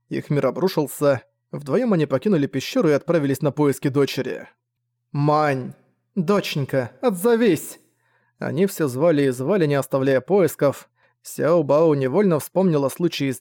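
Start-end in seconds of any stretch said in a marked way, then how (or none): 5.1-7.8 зовёт дочь, голос взлетает на «отзовись»; отчаянно выкрикивая имя; calling out. Acted. Родители зовут пропавшую дочь. (отчаянный зов)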